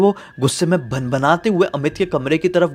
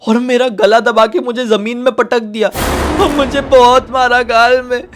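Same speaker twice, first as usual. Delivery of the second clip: put-on high, louder, tearful child's voice between sobs; sobbing little brother; 9 semitones higher, 7 dB louder than usual. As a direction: sob it out like a hurt little boy telling his brother. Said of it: "सिसक सिसक के बोलता है". (सिसकते हुए छोटे भाई की ऊँची रोती आवाज़)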